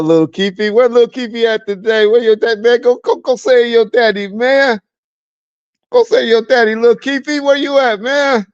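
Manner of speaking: high, sing-song mockery; mocking call for little Keefy, high and teasing; taunting. Real, not acted. Taunting the crying man.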